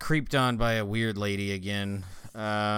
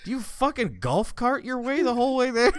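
laughing; 13 semitones higher, 4 dB louder than usual. Retold or imitated. Mock question while still laughing.

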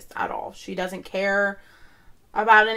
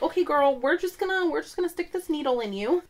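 sassy paramedic; 6 semitones higher, 3 dB louder than usual. Retold or imitated. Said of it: "they were like".

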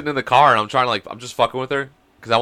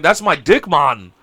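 mock Jamaican accent; 5 dB louder, slower than usual. Jamaican man answering passing girls, mock Jamaican accent. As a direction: playfully fake a Jamaican accent. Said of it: "girls in Jamaica".

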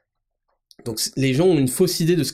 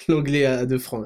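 laughing. Real, not acted. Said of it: "pardon, de faire le".

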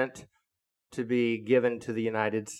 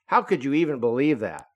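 louder, higher insistent objection; retold Rick arguing back, worked up; indignant protest; 3 semitones higher, 5 dB louder than usual. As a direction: push back as if it's obvious. Rick defending Trump, indignant.

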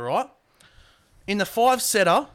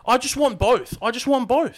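insistent plea; 7 semitones higher, 4 dB louder than usual. Real, not acted. Pleading over co-host's dismissals.

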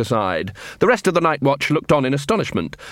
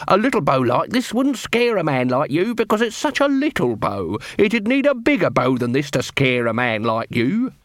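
needling corporal; 3 semitones higher than usual. Acted. Nobby aims a bow at the armourer, mock-reasonable menace. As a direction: lean on little and bigger, toying with the listener.

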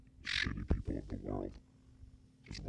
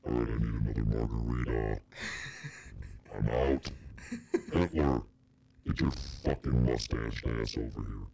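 louder, scornful devil talking down to Hitler; the devil ranting; 3 semitones higher, 4 dB louder than usual. Pretend. Devil on vacation berates Hitler, a loud scornful rant. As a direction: boss him around like a bored devil. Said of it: "I'd be like".

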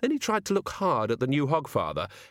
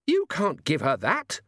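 screaming mother; 6 semitones higher than usual. Acted. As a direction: cry out in horror at the gift. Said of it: "she screamed".

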